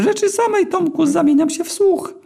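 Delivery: very high, thin and squeaky, slowed down; squeaky eel begging for mercy. A narrator's reading. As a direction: plead in a tiny squeaky eel voice. Eel listening.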